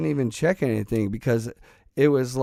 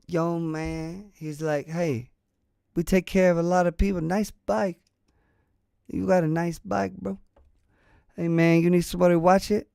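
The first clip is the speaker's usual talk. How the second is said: lightly voiced street hustler, higher and fast; voicing a friendly stranger; 5 semitones higher than usual. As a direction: play the smooth guy eyeing your bike, a bit higher. Stranger offering to watch the bike.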